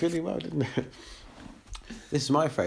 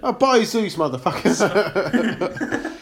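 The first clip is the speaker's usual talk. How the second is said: hammed-up Greek accent, higher and louder; mock Greek accent; 4 semitones higher, 5 dB louder, much slower than usual. Friend asked for a Greek accent, hammy Greek accent. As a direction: declare it like a comic Greek hero. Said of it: "Do a Greek accent then".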